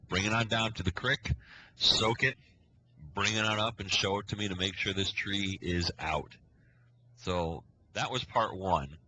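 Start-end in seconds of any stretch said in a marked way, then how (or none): 0.1-6.3 louder, firm imitation of a ranger; retold stern order. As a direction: give the boys punchy commands, in retelling.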